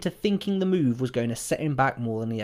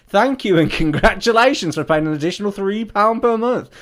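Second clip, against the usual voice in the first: prank reveal laughing; 8 semitones higher, 9 dB louder than usual. Acted. Reading escalating prank text.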